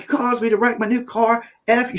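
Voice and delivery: high, mock angry yelling at him; imitating a furious girlfriend. Girlfriend cussing out the driver, high mock yell. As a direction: squeal it like she's going ballistic. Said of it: "She's just screaming and cussing".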